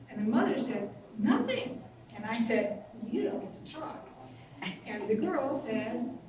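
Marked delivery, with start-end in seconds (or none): 1.2-1.8 high rising "Nothing" with a mock-defensive lift; mother's defensive echo. Mother cutting in over her daughter, a high rising "Nothing". 3.1-4.1 firm whisper. Retold or imitated. Counsellor silencing the mother.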